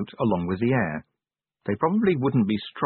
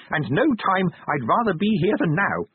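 high-pitched, quavering little man being brave; frightened but resolute, voice pitched high; teeth chattering; 9 semitones higher than usual. A narrator's reading. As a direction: declare it earnestly through chattering teeth. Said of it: "his teeth chattering".

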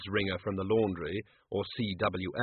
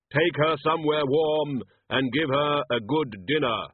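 slow, louder commanding voice of Death; 4 semitones higher, 4 dB louder, slower than usual. A narrator's reading. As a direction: give the order as Death, unhurried and final. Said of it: "he commanded".

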